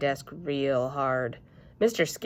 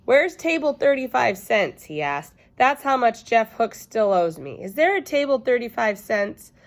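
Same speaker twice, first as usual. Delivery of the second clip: put-on indignant boy; 6 semitones higher, 5 dB louder than usual. Roger demanding money.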